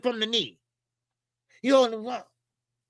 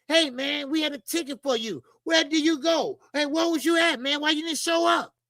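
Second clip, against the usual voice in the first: higher-pitched imitation of a puzzled interviewer; mock questioning; 4 semitones higher than usual. Interviewer asks a boxer why he missed the show, mock puzzled.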